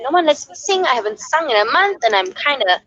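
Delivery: mock-upset complaint, pitched high; lightly acted wail of complaint; retold upset. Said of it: "really upset".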